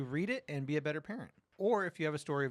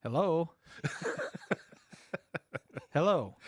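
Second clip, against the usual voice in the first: loud hello; 3 semitones higher, 3 dB louder than usual. Retold or imitated. Dad answering a panicked call.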